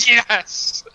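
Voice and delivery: big triumphant yell; excited cheer. Real, not acted. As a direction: shout it with joy. Enemy misses his companion.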